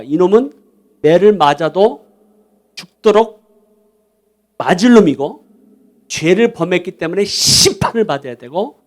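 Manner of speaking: indignant elder son demanding answers; acted outrage, pressing each accusation; confrontational protest. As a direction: take the father to task. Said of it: "따지는 거예요".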